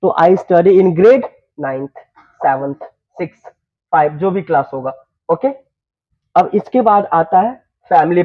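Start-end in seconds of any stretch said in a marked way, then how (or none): 0.2-4.2 teacher shows students how to state their grade, very slowly; slow dictation. Shown as a demonstration. Spelling it out word by word. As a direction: stretch each word out for learners. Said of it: "teacher models class answer".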